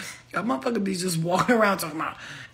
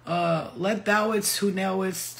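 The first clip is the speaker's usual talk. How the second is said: slow, solemn mock-biblical phrasing; mock Jesus talk; slower than usual. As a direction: drawl it out like a pompous prophet. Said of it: "talk like, like Jesus".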